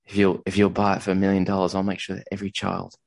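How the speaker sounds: lightly voiced Australian pitch; Australian accent. Pitching a painting at a show, in a mixed Australian accent. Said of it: "a phenomenal Australian accent".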